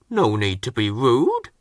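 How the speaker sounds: huffy. Acted. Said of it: "huffed Harvey".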